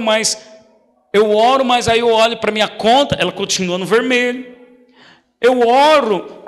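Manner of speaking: a hint of a distressed member; worried church member. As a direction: play the anxious believer. Voices a doubting church member.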